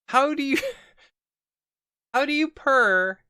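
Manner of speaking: high, loud question broken by laughter; squealing, laughing bafflement; laughing in disbelief. Real, not acted. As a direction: crack up while asking the absurd. Cracking up at absurd narration.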